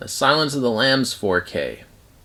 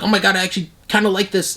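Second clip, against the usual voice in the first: higher and quicker, mock-surprised; a grudging rediscovery, played light; lightly hammed surprised approval; surprised fan; 9 semitones higher, faster than usual. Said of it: "I was like".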